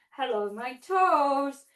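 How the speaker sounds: slow, playful hello to the toes; sing-song kids' greeting. Shown as a demonstration. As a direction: greet your toes for little kids. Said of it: "we can do this one more time".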